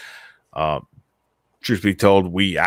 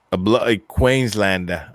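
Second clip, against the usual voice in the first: put-on slow, slipping Australian accent that comes out British; a faltering Australian accent drifting British; attempted Australian accent. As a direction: try an Aussie accent on Queenslander and miss. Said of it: "that's more British than Australian".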